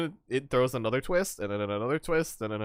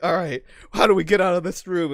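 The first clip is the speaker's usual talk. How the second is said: mock puzzled; 8 semitones higher, 9 dB louder than usual. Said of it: "we're just like".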